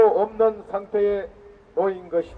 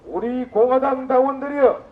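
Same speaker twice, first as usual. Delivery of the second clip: roaring rallying speech. Real, not acted. Rally leader rouses party members.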